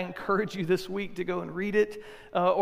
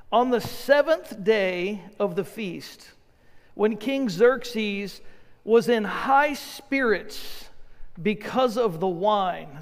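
scripture reading; much slower than usual. Acted. Reads scripture slowly.

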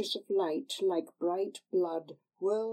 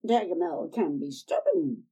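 put-on old crone; 4 dB louder than usual. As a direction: coax her like a sly old crone. Old woman explains.

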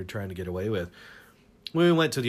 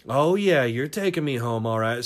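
suggestive; 5 dB louder than usual. Retold or imitated. Drunk woman's suggestive reply.

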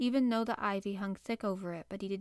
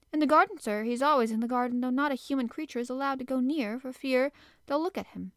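a higher, louder flustered housekeeper voice; 4 semitones higher, 5 dB louder than usual. Acted. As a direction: gush it out to the master, anxious to explain. Medlock answers.

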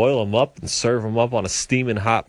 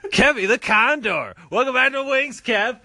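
announcer voice; 14 semitones higher than usual. Acted. Host announces new guest.

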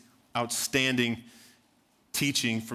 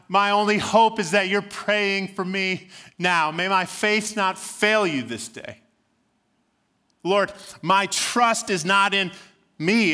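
impassioned plea; 5 semitones higher than usual. Real, not acted. Preacher's pleading climax.

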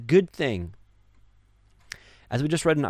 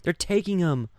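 mock panic; 7 semitones higher, slower than usual. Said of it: "people are like".

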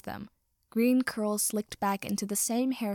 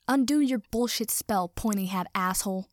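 loud furious demand; 4 dB louder than usual. Acted. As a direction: bark it at the wizard.

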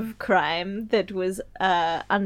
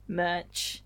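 whisper; 3 semitones lower, 4 dB quieter than usual. Acted. Whispered aside.

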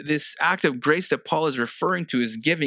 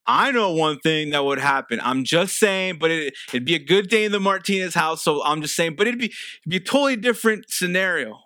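upbeat, knowing tease; playful excitement; 4 semitones higher than usual. Real, not acted. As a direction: sell the happy ending with a wink. Playful aside about the good outcome.

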